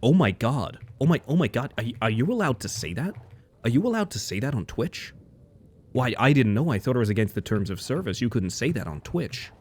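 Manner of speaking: a light put-on American accent, mildly shocked; mock American voice. Streamer mocking American chat, mild American accent. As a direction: lightly imitate a scandalized American viewer. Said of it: "there will be a sort of American voice".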